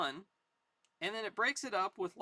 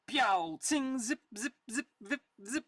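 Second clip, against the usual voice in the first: loud pew, high tsing, quick zips; gunfire noises; 5 semitones higher, 4 dB louder than usual. Acted. Reader voicing a sniper's bullets, gunfire noises. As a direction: fire off cartoon ricochet noises.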